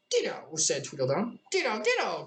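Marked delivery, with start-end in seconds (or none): 0.1-0.6 lightly voiced Tweedledum, a touch higher; a curt little twin's ditto; hint of a smug twin brother. Tweedledum answers Alice. 1.5-2.2 higher crying Tweedledee; a twin outdoing his brother, up high. Acted. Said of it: "cried Tweedledee".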